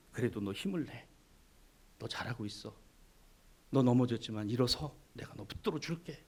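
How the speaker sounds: low, soft reassuring voice; tender encouragement from God; gentle comfort. Pretend. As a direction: comfort someone who fell.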